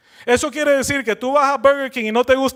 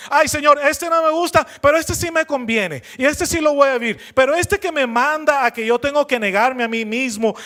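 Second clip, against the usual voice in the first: whiny believer; 4 semitones higher than usual. Retold or imitated. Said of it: "somos así con la palabra".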